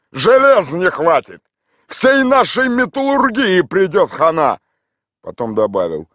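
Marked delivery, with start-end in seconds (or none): 0.1-4.6 laughing. A narrator's reading. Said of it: "расхохотался".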